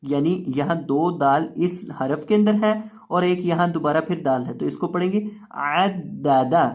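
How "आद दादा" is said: आद दादा with a hard-held middle d; firm doubled d. Shown as a demonstration. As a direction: grip the d in आद दादा, ending short. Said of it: "दाल को आपने सख्ती के साथ पढ़ना है". (عَدَّدَ سخت مشدد دال کے ساتھ)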